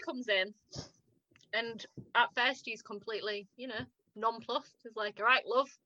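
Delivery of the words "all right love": put-on northern English accent. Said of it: "in his northern accent".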